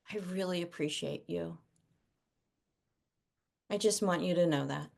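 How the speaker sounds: soft, gentle words of thanks to a son; quiet, heartfelt appreciation; tender praise to child. Retold or imitated. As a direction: speak softly and sincerely to your kid. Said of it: "you know, just like".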